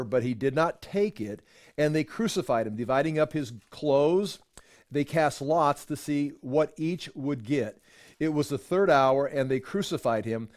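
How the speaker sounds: measured Bible reading to a class; formal scripture reading voice. Acted. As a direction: read the passage steadily and clearly. Reads scripture aloud.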